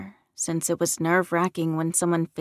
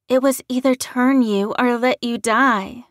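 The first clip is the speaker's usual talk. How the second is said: higher, louder woman's voice; redhead explaining herself; 6 semitones higher, 7 dB louder than usual. A narrator's reading. Redhead to the man she turned, urgently explaining. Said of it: "the redhead explained".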